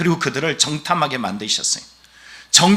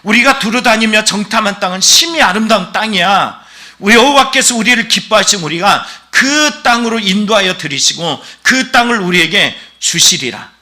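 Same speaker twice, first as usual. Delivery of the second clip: raised, forceful quoted declaration; 강렬한 선포; 4 semitones higher, 4 dB louder than usual. Retold or imitated. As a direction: proclaim it with conviction, higher and louder at first. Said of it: "던졌던 말은 더 강렬해요". (강렬하게 선포하듯 높고 힘 있게)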